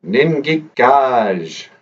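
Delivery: Ningikaj said slowly, syllable by syllable; Ningikaj, drawn out for learners; Ojibwe phrase said slowly. Shown as a demonstration. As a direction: teach Ningikaj slowly and clearly. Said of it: "our Ojibwe phrase".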